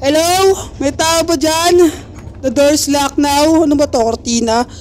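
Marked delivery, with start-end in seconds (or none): 0.1-2.1 high, slow calling out. Pretend. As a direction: call into the dark house. Calling into empty mansion. (tawag sa bahay na walang tao)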